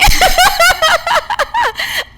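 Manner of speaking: a high laugh that cracks toward crying; high teary laugh. Real, not acted. Recalling crying over the birthday, high tearful laugh. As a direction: laugh through the tears. Laughing while retelling tears.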